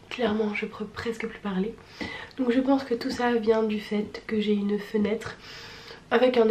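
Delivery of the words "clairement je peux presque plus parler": rough, husky, worn-out voice; hoarse voice. Real, not acted. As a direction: speak with a tired, hoarse voice. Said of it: "voix, euh, de fumeuse du dimanche".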